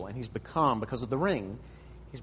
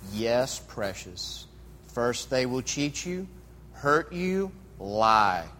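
slow, sinister creature voice, mostly lower; Gollum; 3 semitones lower, much slower than usual. Acted. Sinister creature warning his other self of betrayal, slow and menacing. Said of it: "we're gonna start off with Gollum".

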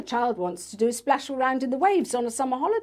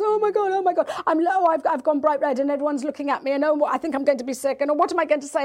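imitating a panicking teen, higher and fast; panicking child; 5 semitones higher, faster than usual. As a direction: rush it out high like a kid in a panic. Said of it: "the panic".

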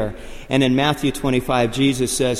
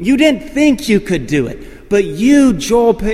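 high, loud triumphant proclamation; imitated race announcer at full volume; 4 semitones higher, 5 dB louder than usual. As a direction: proclaim it to the finisher over a crowd. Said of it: "he says this from the P A".

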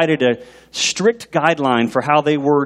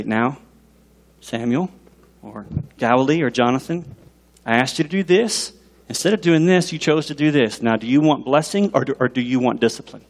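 loving, gracious; 3 semitones lower than usual. Retold or imitated. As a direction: gently offer a child the choice. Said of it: "with love and grace".

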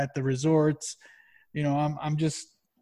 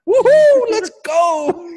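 much higher, louder fake cheer; mock cheer; 10 dB louder, slower than usual. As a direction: whoop it like a sarcastic party guy. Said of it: "you're like".

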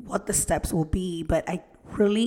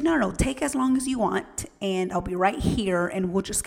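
reassuring nurse. Retold or imitated. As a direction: brush off the worry, quick and kind. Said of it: "she's like".

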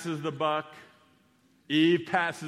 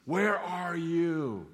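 slow calling voice; 2 semitones higher, much slower than usual. Acted. God calls out slowly to the hiding man. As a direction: stretch out each word, slow and searching.

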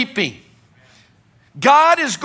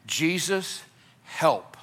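low, soft desperate cry for help; quiet broken plea; 6 semitones lower, 9 dB quieter, much slower than usual. Acted. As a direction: whisper it like a last hope. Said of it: "They had faith by this".

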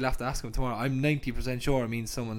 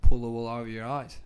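put-on Aussie accent on request; light Australian accent demo; 3 semitones lower, 4 dB louder than usual. Shown as a demonstration. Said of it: "say it in an Australian accent".

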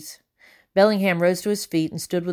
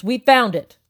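loud, higher triumphant call; excited shout; 6 semitones higher, 5 dB louder than usual. A narrator's reading. Soldier calling down that they found it, loud. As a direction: shout the find down the stairs. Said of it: "shouted a soldier upstairs".

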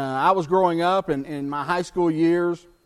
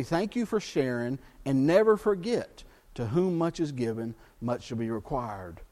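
gentle teacher's reminder; 5 semitones lower, 3 dB quieter than usual. Retold or imitated. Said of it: "she would say".

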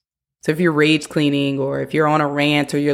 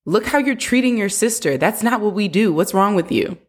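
put-on raised, sharp scolding of a child; scolding parent; 5 semitones higher than usual. Shown as a demonstration. Parent scolding a child over her sister, sharp and raised. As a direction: scold the kid for how they treat their sister. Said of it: "Instead of".

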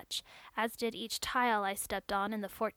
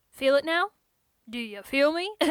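eager, raised exclaiming; 4 semitones higher, 8 dB louder than usual. A narrator's reading. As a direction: call it out eagerly. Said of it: "he exclaimed".

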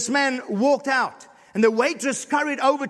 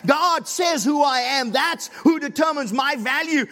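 shouted proclamation; 5 semitones higher than usual. Acted. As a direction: proclaim it at full voice to the whole church. Climax of sermon, shouted.

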